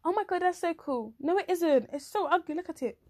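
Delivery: high, hammed-up exchange with the artist; acted fuss over a drawing; mock gushing and protesting. Acts admirer and self-deprecating artist.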